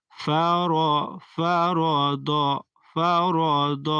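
ফারদ said short, no long a after র; আকার ছাড়া উচ্চারণ; recitation demo. Shown as a demonstration. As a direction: blend ফারদ without lengthening. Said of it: "আকার দেয়নি".

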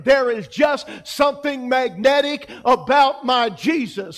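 slow, loud preached line; preaching shout. Real, not acted. Preacher swelling the hall with a loud, slow line. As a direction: build it into a loud, slow declaration.

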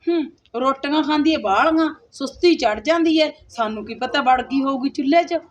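a spiteful stepmother plotting aloud; scheming stepmother. Acted. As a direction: hiss out the wicked plan like a stepmother.

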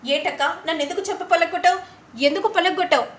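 sharp rising indignation; indignant protest. Acted. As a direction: demand to know why she was slapped. Slapped sister-in-law protests.

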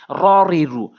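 "র রি রু" with a full, rounded heavy r; rounded mouth. Shown as a demonstration. Teacher modelling the Arabic Ra, mouth rounded. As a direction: round the lips on "র রি রু". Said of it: "মুখটা গোল করে".

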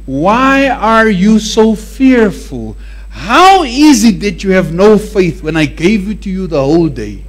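Jesus asking slowly, a hint of reproach; slow rebuke. Jesus questioning the fearful disciples, slow and reproachful. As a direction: draw out why like a disappointed teacher.

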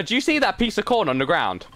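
high-pitched disbelieving question; astonished. Real, not acted. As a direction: ask it in real amazement. Baffled at odd sight in game.

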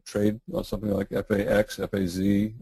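slightly hoarse, voice giving out; losing voice, a bit hoarse. Real, not acted. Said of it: "I'm losing my voice again".

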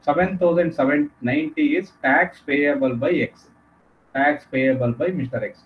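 slow, deliberate dictation pace; dictating notes. Acted. Teacher slowly dictating the answer for students to note down. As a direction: spell it out slowly so they can write.

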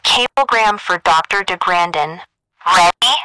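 high, thin telephone voice; girl over the wire. A narrator's reading. Operator rings the doctor at night, high telephone voice. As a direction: telegraph operator through a phone line. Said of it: "A girl's voice announced over the wire".

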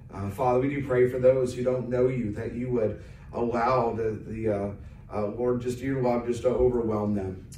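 prayer murmured before the sermon; earnest prayer. Acted. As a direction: pray it humbly over the people. Pastor prays aloud for congregation.

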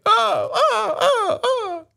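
high screeching owl cries of joy; joyful owl cry. Acted. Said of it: "ein lautes Freudengeschrei".

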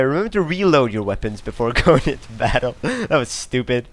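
normal talking voice

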